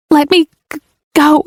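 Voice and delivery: 高声急切地恳求; breathless, high pleading to be let go; desperate plea. Acted. Pinned down, pleading to be released.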